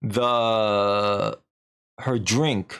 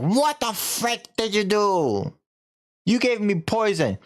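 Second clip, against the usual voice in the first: higher, accusing demand; mock angry; 8 semitones higher than usual. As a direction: confront her like a furious widower. Husband grabs priestess by throat.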